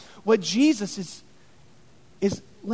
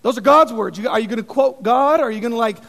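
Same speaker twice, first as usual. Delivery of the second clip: shocked crowd; 4 dB louder, faster than usual. Retold or imitated. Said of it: "all the people are like".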